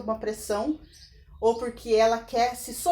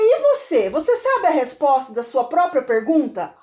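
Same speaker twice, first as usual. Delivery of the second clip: retorted challenge; 3 semitones higher, 5 dB louder than usual. Retold or imitated. Student turns question on professor.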